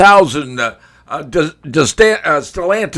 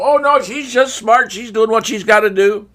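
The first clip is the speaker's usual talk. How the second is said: mock media voice; 4 semitones higher than usual. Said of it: "The media's gonna go".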